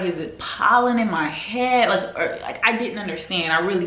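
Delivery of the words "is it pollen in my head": a quizzical question broken by a laugh; laughing disbelief. Retold or imitated. Telling viewers about the itch, laughing in disbelief. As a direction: laugh it out, baffled by your own itchy scalp. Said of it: "I was like".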